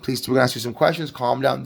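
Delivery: lightly voiced calm emergency operator; calm dispatcher. Dispatcher to panicking caller on the line, calm and controlled. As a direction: keep it even and controlled, settling a caller. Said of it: "responding in a very calm manner".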